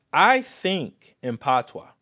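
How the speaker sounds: slow words in a light Jamaican patois accent; a touch of Jamaican patois. Shown as a demonstration. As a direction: let the Jamaican patois lilt come through, slowly. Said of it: "it's the Jamaican dialect".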